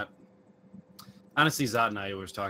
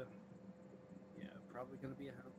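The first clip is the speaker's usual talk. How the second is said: far from the mic; 4 semitones higher, 7 dB louder than usual. Real, not acted. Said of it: "It sounds like you're, uh, in another room".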